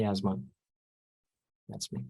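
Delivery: normal talking voice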